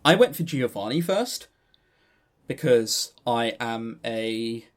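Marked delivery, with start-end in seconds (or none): 2.5-4.7 slow, drawn-out mock swoon; slow teasing swoon over a rugged hero; mock dreamy swoon. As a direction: play the dreamy fangirl, tongue in cheek. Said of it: "You could hear it in my voice".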